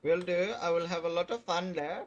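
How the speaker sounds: put-on light Indian accent, cheerful. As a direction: Indian accent with a sing-song tune. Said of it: "I'm doing an Indian accent".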